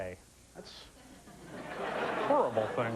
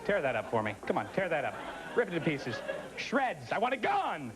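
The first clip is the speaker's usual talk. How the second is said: mock outrage; 3 semitones higher than usual. Mock demand to destroy something, building.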